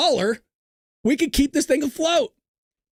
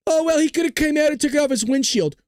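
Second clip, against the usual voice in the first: slightly raised mock objector voice; mocking imitation; 4 semitones higher than usual. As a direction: imitate a lame excuse, higher. Mocking an imagined objector's excuse.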